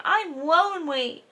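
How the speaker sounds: sulky little voice; mopey whine. Retold or imitated. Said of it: "so he's like".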